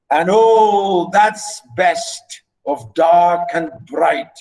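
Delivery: slow measured reading, all stressed; teacher lingering over the verse; poem recitation. Shown as a demonstration. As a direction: savour the line.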